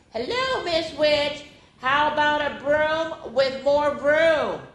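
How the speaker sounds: high, slow sing-song hello to a witch; mock-sweet teasing; sweet greeting.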